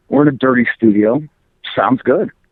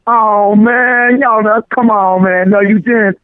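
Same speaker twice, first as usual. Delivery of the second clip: higher, louder mock street talk; teasing imitation of high school friends, pitched up; imitating high school friends; 9 semitones higher, 3 dB louder, slower than usual. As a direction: scold him for acting like a square. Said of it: "they're like".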